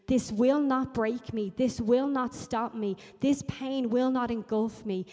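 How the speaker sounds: firm, emphatic declaration; defiant prayer. Acted. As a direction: declare it with rising resolve, each line hammered. Voicing a defiant prayer to Jesus.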